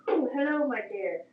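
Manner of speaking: light imitation of a Northern Irish accent on "Oh, hello, my dear."; a hint of a Northern Ireland lilt, bright on the "Oh". Retelling a Swedish phone call, imitating the girl's Northern Irish accent. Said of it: "with a typical Northern Ireland accent".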